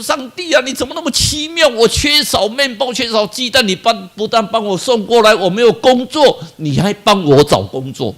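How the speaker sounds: tearful thanks. Retold or imitated. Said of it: "眼睛就掉下来".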